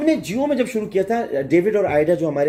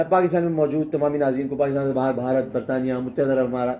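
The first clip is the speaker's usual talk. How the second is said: low, evenly listed broadcast greeting; own signature greeting; 5 semitones lower than usual. Shown as a demonstration. Anchor demonstrating his much-imitated greeting to viewers worldwide, signature delivery. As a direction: roll out the countries in a low announcer's delivery. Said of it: "جیسے میرا ایک ہے".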